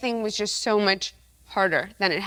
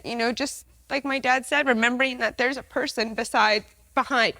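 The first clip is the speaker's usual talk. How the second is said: emotional; 2 semitones higher than usual. Real, not acted. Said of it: "Sorry, I'm so emotional".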